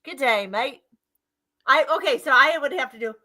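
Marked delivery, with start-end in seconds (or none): 0.0-0.8 drawled put-on Aussie; Australian accent. Shown as a demonstration. Showing friend how it goes, drawled Australian accent. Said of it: "See, it's more like draw".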